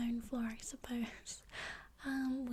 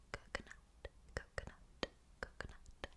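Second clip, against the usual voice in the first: much softer, fully breathy whisper; hushed ASMR whisper; 12 dB quieter than usual. Shown as a demonstration. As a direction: whisper coconut with no voice at all. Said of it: "or whispered".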